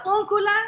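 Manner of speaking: úncula with its accented first syllable punched; stress on úncula. Shown as a demonstration. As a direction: lean on the "ún" in úncula. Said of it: "see that accent on".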